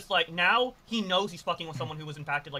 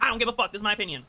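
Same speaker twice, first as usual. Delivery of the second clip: higher, louder defiant parody; internet debate mode; 5 semitones higher, 4 dB louder, faster than usual. Retold or imitated. Mocking streamers who play crazy debaters, higher and louder. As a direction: bark it like a smug debate bro, up high and loud. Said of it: "internet debate mode and being like".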